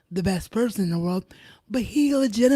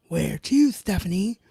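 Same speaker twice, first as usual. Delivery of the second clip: Undertaker quote; 3 dB louder than usual. Retold or imitated. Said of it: "from The Undertaker".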